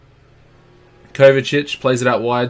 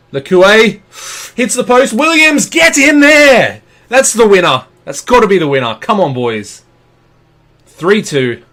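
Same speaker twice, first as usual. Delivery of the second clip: screaming with joy at a late winner; ecstatic shout; 10 semitones higher, 9 dB louder than usual. Real, not acted. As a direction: yell it, high and loud, pure elation. Winning goal celebration.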